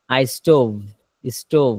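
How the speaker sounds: আ স্টোভ ending in a v made at the lips like Arabic fa; lip-made final v. Shown as a demonstration. Teacher showing students where the v of stove is made. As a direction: close স্টোভ on a clear lip v. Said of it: "শেষে ঠোঁটের দিকে হচ্ছে বাজবে".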